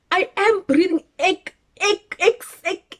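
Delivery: high, loud exasperated insisting; exasperated protest. Retold or imitated. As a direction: insist you're breathing, then huff mock breaths. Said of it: "I was like".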